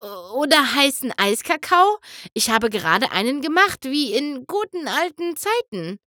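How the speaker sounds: trembling, eager to please; shaky voice. Acted. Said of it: "fragte Bonbon mit zittriger Stimme".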